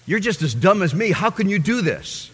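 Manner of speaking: loud, high jeering brother; mocking brother. Brother jeering loudly at his sudden A grades. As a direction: scoff at him like a jealous brother. Brother accusing him, acted out.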